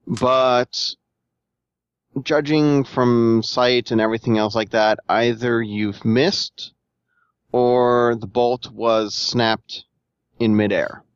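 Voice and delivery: slow, drawn-out reveal; game master narration. Acted. Game master reveals the fate of a crossbow shot, deliberate narration. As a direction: stretch it out with pauses for suspense.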